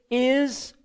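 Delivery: "is," held apart by a pause on both sides; dramatic pause around "is,"; pause for emphasis. Shown as a demonstration. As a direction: hang on "is," before the reveal. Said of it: "pause for emphasis".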